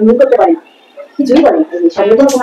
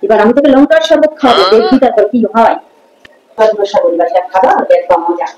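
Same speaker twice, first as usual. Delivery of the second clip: sly scheming threat; 5 semitones lower than usual. Acted. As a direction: murmur the revenge plan to yourself, relishing it. Mother-in-law plots revenge with chili drink.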